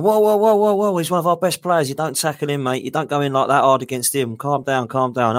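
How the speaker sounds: Arsene Wenger. Retold or imitated. Wenger stopping the trialist tackling his star, mock alarm. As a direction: play the boss yelping for calm and then settling into a scolding. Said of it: "So then Arsene Wenger's going".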